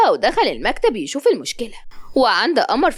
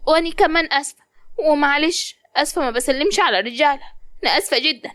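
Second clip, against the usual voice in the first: put-on polite girl; 3 semitones higher than usual. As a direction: apologise sweetly. Malak apologises.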